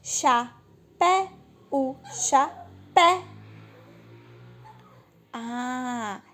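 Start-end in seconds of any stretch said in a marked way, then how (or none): 0.0-3.2 "Chapéu" chanted slowly in syllables, pitched up on "pé"; slow, high syllable-by-syllable demo of "Chapéu"; stress on pé. Shown as a demonstration. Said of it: "Não é o pé?".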